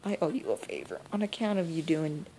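lightly voiced old woman, disbelieving; a hint of a granny refusing the news; shocked granny. Granny hearing her grandson died, mild disbelief.

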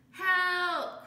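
high, loud shout of help; cry for help. Acted. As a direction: call out in distress. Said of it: "cried a child off in the distance".

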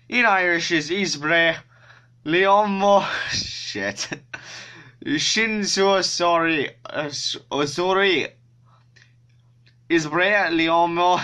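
bad Irish accent, high and halting; Jacksepticeye. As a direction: stumble through it in a put-on Irish voice. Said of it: "very bad Jacksepticeye Irish accent".

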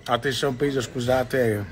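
talking while chewing; mouth full. Real, not acted. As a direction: speak through a mouthful of food. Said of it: "sto masticando".

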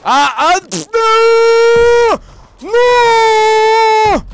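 loud high cry of protest; furious shout. Real, not acted. Gamer just killed in the match, furious high shout. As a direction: scream no at the screen.

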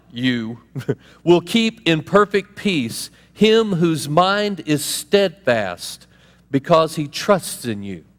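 slow, measured reading of the verse; scripture reading. Shown as a demonstration. Pastor to congregation, slow scripture reading. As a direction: read the verse slowly. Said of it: "we read".

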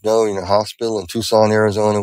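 lightly imitated Indian accent; a hint of an Indian doctor's accent. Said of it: "with this heavy Indian accent".

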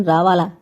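"రావాలా" with "రా" said through the nose; teaching the nasal sound of "రావాలా"; nasal pronunciation. Shown as a demonstration. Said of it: "It is a nasal pronunciation".

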